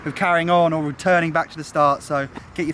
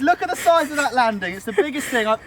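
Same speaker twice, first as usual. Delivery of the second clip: excited; 8 semitones higher than usual. Real, not acted. First sight of huge new landing.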